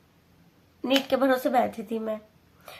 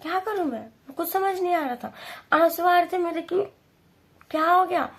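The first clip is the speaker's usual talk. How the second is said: higher, near tears; tearful; 6 semitones higher than usual. Real, not acted. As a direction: voice lifting as the tears come back. Tearful memory of exam day.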